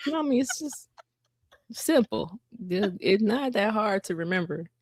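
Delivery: mock long-suffering kid voice; child chiding mom.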